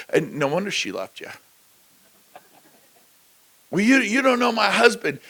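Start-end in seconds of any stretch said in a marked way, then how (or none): 3.7-5.2 mock defensive wife. Voicing a complaining wife.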